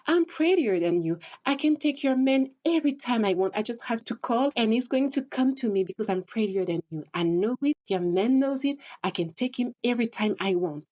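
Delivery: imitating a smug rival taunting; catty girl taunt. Vlogger acting two girls fighting, a lightly voiced smug taunt. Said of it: "one is going to say".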